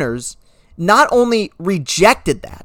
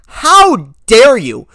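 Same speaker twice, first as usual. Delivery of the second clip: indignant; 3 semitones higher, 4 dB louder, much slower than usual. Real, not acted. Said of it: "I never use this phrase".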